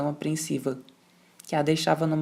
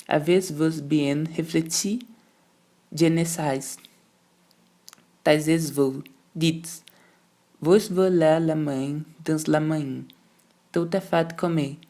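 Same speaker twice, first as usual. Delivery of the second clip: slow, chewed-out French in angry contempt; syllable by syllable; slower than usual. Acted. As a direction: spit each syllable with scorn. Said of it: "Mastigava sílaba por sílaba, no desprezo colérico".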